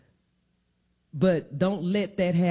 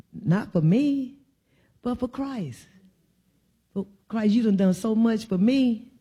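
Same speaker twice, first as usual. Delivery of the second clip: rising sermon plea; 4 semitones higher than usual. Real, not acted. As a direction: lift the voice, not for me but for Christ. Preacher lifts voice, pleading for Christ.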